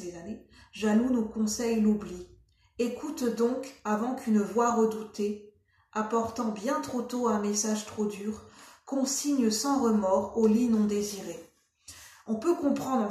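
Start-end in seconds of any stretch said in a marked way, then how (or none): 0.0-11.4 measured poetry recitation; deliberate storybook-poem delivery; poem reading. Acted. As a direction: read verse aloud with pauses between lines. Reads a poem aloud.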